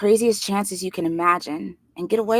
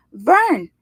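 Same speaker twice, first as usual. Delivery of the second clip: louder, much higher shout of the name; called out name; 7 semitones higher, 8 dB louder than usual. A narrator's reading. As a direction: shout it up through the door. Answering through the trap door.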